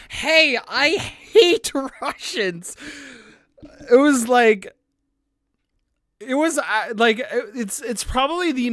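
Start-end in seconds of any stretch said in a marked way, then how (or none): 0.1-2.7 loud, high, slow, breaking into laughter; can't keep a straight face; laughing mock quote. Quoting the troll's message to the server, laughing. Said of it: "coming into the server and saying".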